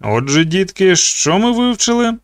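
вище, з легкою вдаваною повчальністю; запитай, ніби вчитель малих дітей; запитання вчителя дітям. A narrator's reading. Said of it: "запитав Нікі". (трохи награний учительський тон із підйомом)

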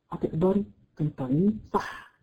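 usual speaking voice

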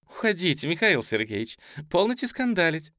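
высокий женский голос, лёгкая насмешка; весело выпроваживать; смеясь. A narrator's reading. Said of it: "сказала, смеясь, Таня". (с намёком на смех)

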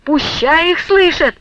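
defiant yell, let the whole house hear; raging shout. A narrator's reading. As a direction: hurl it back at him in fury. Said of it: "пуще прежнего лютовала Устинья".

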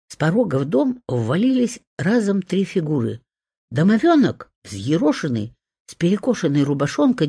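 ordinary delivery

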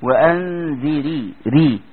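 وانذري stretched very slowly with a thin ر; slow tajweed demo of a light ر; light Raa. Shown as a demonstration. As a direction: drawl وانذري and keep the ر light. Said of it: "تيجي تقول".

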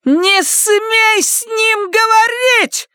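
screaming. Acted. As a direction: scream the order at her daughter. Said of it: "закричала она".

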